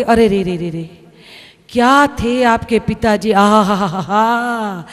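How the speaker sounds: low, drawn-out hammed-up lament; sing-song fake grief, stretched out slow; mock mourning wail. Mock condolence lament at neighbour's.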